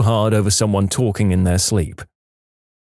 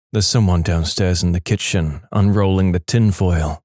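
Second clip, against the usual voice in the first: lightly voiced sleepwalker, low; a hint of a sleepwalker, pitched down; low-voiced report from a sleepwalker; sleepwalking husband; 4 semitones lower than usual. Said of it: "And I said".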